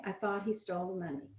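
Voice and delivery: "he" stressed, quick and soft. Shown as a demonstration. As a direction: lean on the word "he". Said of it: "give them sentences like".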